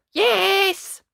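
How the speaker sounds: high, bright, loud cheerful yes; small knight's happy yes; eager yes. Acted. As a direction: chirp it out like a keen little boy. Ned agreeing at bedtime.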